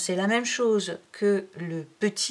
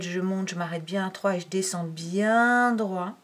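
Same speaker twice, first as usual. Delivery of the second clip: long stretched "bien", timed to a downstroke. Shown as a demonstration. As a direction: hold "bien" all the way down the line. Parole calée sur le tracé. (en étirant « bien » le long du trait)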